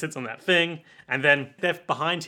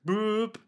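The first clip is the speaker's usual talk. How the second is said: mouthed phone beep; 6 semitones higher than usual. Retold or imitated. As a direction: mouth a short dial-tone boop. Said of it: "That's my impression".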